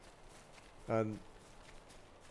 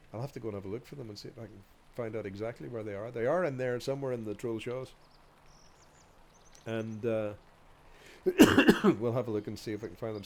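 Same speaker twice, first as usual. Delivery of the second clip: blocked nose, nasal and stuffed; talking through a head cold; stuffy nose; 5 dB louder, faster than usual. Real, not acted. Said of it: "the nasally voice and stuffed voice".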